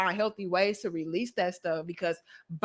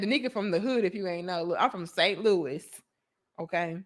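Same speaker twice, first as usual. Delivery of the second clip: reading viewer comment; 3 semitones lower, 5 dB quieter than usual. Retold or imitated. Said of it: "Ma said".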